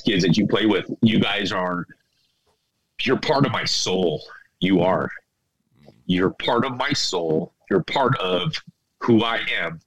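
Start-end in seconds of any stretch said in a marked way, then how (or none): 3.0-9.8 tearful. Real, not acted. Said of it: "I'm not gonna cry like this anymore".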